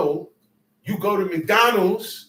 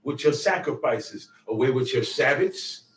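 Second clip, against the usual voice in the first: solemn God's rebuke; 3 semitones lower than usual. Retold or imitated. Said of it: "He said".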